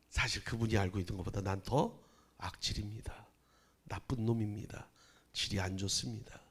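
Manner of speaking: hushed confession. Retold or imitated. Pastor quietly admitting he is worse. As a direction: confess it in a near whisper.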